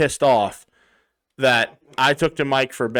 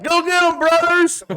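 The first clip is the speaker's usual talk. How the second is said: high, louder rallying call; mock cheer; 5 dB louder than usual. Jaron cheering passing bike cops, high loud mock cheer.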